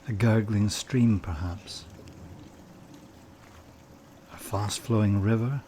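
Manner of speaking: calm meditation guide with long pauses between phrases; guided meditation. Acted. Meditation leader has listeners picture flowing water, calm guided delivery.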